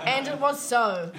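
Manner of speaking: solemn scripture reading voice; biblical narration. Acted. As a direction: read it like Genesis, grand and measured. Reads mock Genesis creation story.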